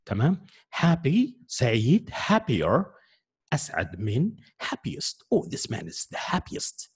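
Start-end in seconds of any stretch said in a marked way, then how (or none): 5.4-6.9 example sentence. Shown as a demonstration. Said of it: "لما نتكلم عن شخص نقول".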